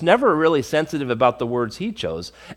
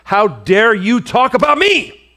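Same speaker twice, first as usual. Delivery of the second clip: mock indignant Zophar; 2 semitones higher than usual. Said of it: "Zophar the Naamathite answered and said".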